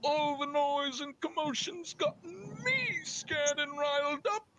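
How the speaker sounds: slow, whiny fake crying; mock whimpering. Jealous husband whimpering to his wife, hammed-up sobbing.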